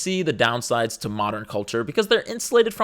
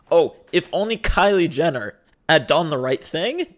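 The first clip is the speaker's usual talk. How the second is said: mocking singsong repeat with a rising end; sarcastic echo; 3 dB louder than usual. Mocking the people who complain online, sarcastic echo. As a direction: parrot the phrase back with scorn.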